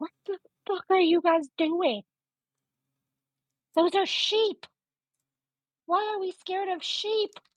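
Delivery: loud stage whisper, borderline yelling. In a game, calling to Creed, the closest character, in a whisper-yell. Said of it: "I'm just gonna like whisper yell to Creed".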